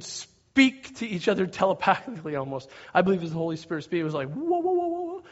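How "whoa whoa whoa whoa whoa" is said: high, wobbly string of whoas; mock alarm. Holy Spirit checks the leaders, high warning whoas. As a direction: wail it high like an inner warning. Imitating a wordless warning inside.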